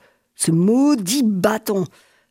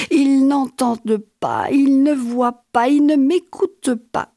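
désespoir montant; 4 semitones higher than usual. Acted. Fou torturé implore, monte.

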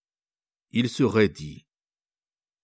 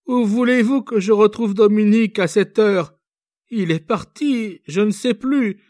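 high, loud, helpless distress; distraught young girl; 12 semitones higher, 7 dB louder than usual. A narrator's reading. Young girl to the officer, desperate, distraught. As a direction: plead that it is impossible.

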